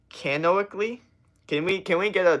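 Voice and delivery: high, rising questioning repeat; baffled, upward-sliding question; puzzled query. Real, not acted. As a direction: query the unfamiliar word, pitch climbing sharply. Puzzles over an unknown word.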